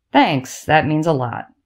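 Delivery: dry, deadpan, wry. The narrator's brother answers their father's jab at him; dry. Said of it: "my brother says dryly".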